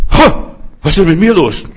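high, loud startled exclamation; amazed shout of sudden healing; astonished cry. Retold or imitated. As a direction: she suddenly feels her back straighten. Healed woman cries out astonished.

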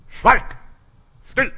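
scharfer, lauter Befehl, deutlich höher; brüll die Dämonen energisch an; laut befehlen. Shown as a demonstration. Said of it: "du musst auftreten". (laut und hoch gebieten)

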